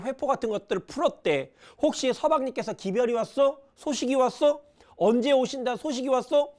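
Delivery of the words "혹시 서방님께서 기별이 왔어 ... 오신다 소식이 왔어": higher, eager daughter asking fast questions; a daughter begging for news, higher and eager; eager questioning. Acted. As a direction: press her mother for any word of him. Daughter pressing mother for news.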